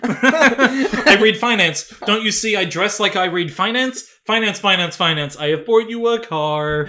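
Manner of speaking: slow, lightly voiced smug hero, laughing through; mock posh film hero. Mocking the film's hero, slow and smug. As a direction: ham up the rich boyfriend bragging.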